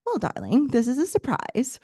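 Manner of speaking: put-on light British accent, only hinted; a touch of British English on darling; faint British accent. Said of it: "he says with a faint British accent".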